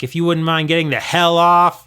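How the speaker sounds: loud, annoyed demand to get off; shouted. Acted. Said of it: "he shouted".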